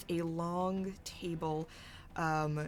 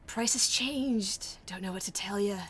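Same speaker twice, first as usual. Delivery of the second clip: sneer; 4 semitones higher, 5 dB louder than usual. Acted. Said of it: "her sneer going".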